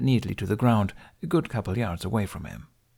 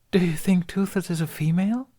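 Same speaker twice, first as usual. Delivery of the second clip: put-on young woman voice; 10 semitones higher than usual. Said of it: "light with laughter and warm".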